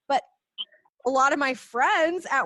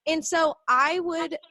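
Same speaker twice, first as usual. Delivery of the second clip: usual speaking voice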